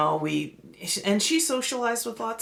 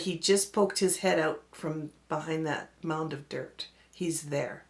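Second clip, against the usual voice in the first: hushed fear; 3 semitones lower, 5 dB quieter than usual. Retold or imitated. Scared friend quoting sighting.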